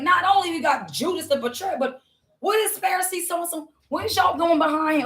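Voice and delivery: retold astonishment, voice lifted high; mock incredulous questioning. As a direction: act out their disbelief, pitching the questions up. Acts out startled onlookers in story.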